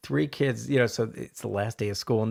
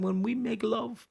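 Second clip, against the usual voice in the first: high Italian wife building to a shrill shout; hammed-up old Italian lady, escalating; old Italian woman; 5 dB louder than usual. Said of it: "she brings the old Italian woman in".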